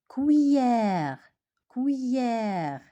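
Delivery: Cuillère drawn out on an open è, falling; pronunciation demo. Shown as a demonstration. Teacher asks pupils to listen to pronunciation, careful demo. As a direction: say Cuillère slowly as a model, stretching the è. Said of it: "Écoutez bien la prononciation".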